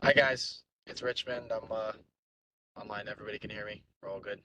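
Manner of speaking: speaking from a parked car; boxed-in car cabin sound; from inside a car. Real, not acted. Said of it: "I'm in my car right now".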